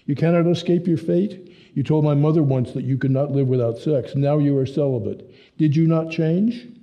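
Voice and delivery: understated insistent German son. Acted. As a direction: make him face the truth, slowing to the end. Hans confronts Dave.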